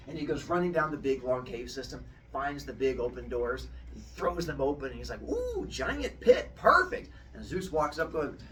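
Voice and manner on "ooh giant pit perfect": high, slow, thrilled coo; delighted squeal. Acted. Zeus cooing high with glee at the giant pit. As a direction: coo it out high like a giddy kid.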